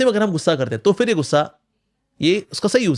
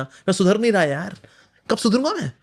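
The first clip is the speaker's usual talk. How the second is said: scolding oneself; 4 semitones higher than usual. Retold or imitated. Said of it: "आप खुद पे गुस्सा करना".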